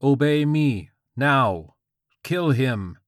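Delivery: high, loud commanding God; hissed divine command. A narrator's reading. God orders George to kill, loud insistent command. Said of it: "God hissed".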